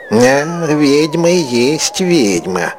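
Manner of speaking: hollow, slow, near-tearful accusation; глухо, плаксиво. A narrator's reading. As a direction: say it choking on a sob. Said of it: "глухим, плачущим голосом".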